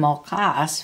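"mokas" with weight on the final "kas"; light "mo", stronger "kas"; stress on KAS. Shown as a demonstration. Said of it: "with no stress mark".

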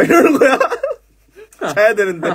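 can't hold back the laughter; laughing. Real, not acted. Telling a friend the sparrow story, laughing.

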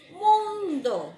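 "tiempo" agudo y fuerte, bien separado; dictado marcado. Shown as a demonstration. ("tiempo" dictado con fuerza)

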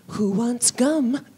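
slow sing-song mock-cheery offer; cheery stewardess. Stewardess popping out to screaming passengers, slow mock-cheery. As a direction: drag it out brightly over the screaming. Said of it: "long enough to go".

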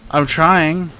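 high, loud, strained; frantic trying. Real, not acted. Trapped player straining to escape, high frantic voice. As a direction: push through frantic effort.

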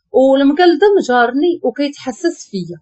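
ordinary delivery, nothing marked

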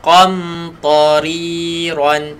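qa from the back of the tongue; teacher modelling a heavy qa. Shown as a demonstration. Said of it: "Kena qa".

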